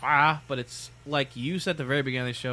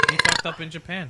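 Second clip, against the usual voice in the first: raised-voice reply; emphatic answer; 4 semitones higher than usual. Real, not acted. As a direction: answer firmly over the others. First take of repeated answer.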